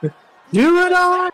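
slow shout. Pretend.

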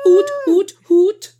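high, loud excited hoots; excited hooting. Real, not acted. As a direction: hoot like a cheering fan. Cheering the episode topic.

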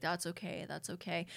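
soft, mumbled imitation of hollow comforting; fake reassurance. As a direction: imitate his insincere soothing, very quietly. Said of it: "fake as hell".

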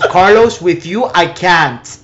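loud, high acted outburst through laughter; hammed-up lovers' quarrel, half laughing; mock fed-up girlfriend. Acting girlfriend in full-blown argument.

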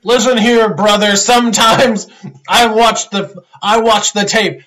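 a hint of loud wrestler promo; light Hogan-style promo voice; Hulk Hogan. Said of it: "Hulk Hogan tweet".

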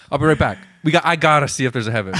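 quick chipper reporter sign-off; breezy TV newscaster, rattled off fast; investigative journalist. Pretend. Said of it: "Like an investigative journalist".

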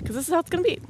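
breathless, winded talk; out of breath. Real, not acted. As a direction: speak short of breath. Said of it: "And I'm out of breath".

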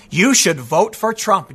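slow mocking repeat. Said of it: "He said it twice".

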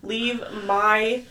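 formal, loud legal voice; solemn will reading. Retold or imitated. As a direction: read it like a last will. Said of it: "It would say something like".

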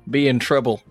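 ordinary talk

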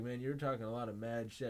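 put-on Russian accent; mock Russian tough talk. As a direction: challenge him in a Russian accent. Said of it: "like, doing it in Russian".

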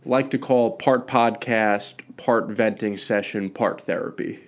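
congested voice from a cold; stuffy nose. Real, not acted. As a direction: talk through a stuffy nose. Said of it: "sorry if I sound a little stuffy today".

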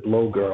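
"blogger" said as "blow-ger"; mimicked mispronunciation. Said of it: "That's my accent".

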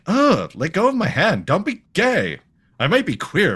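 high-pitched, swooping refusal; exaggerated high cartoon protest; mock indignant protest. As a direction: recoil in hammed-up disgust. Villain indignantly rejects being rescued.

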